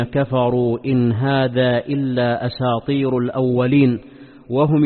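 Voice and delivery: measured, chanted Quran verses; Quran recitation. Acted. (تلاوة قرآنية مرتلة)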